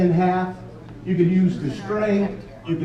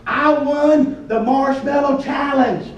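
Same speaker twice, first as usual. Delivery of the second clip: proud boast; 5 semitones higher, 3 dB louder, slower than usual. Pretend. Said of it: "you'll be able to say".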